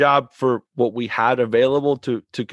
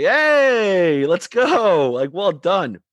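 high excited call from the sideline; cheering player on; 6 semitones higher, much slower than usual. Retold or imitated. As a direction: shout encouragement to a player. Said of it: "obviously I was like".

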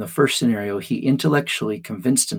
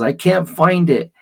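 loud, high upset yell; child's yell; 6 semitones higher, 5 dB louder than usual. Retold or imitated. Little girl yells at dad about lost crayon, loud and high. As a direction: shout it like a frustrated little girl. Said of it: "And she yells".

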